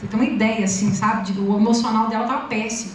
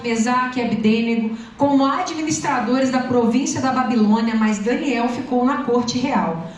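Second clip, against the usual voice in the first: scripture reading. Real, not acted. Reads Bible passage aloud.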